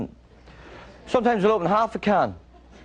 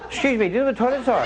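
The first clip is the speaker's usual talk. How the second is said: eyebrows raised; 6 semitones higher, faster than usual. Shown as a demonstration. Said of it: "Always have your eyebrows up".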